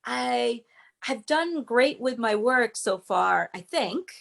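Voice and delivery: slow statement trailing into a rising I think; doubtful qualifier tag. Shown as a demonstration. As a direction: sound unsure of yourself at the end. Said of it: "For example".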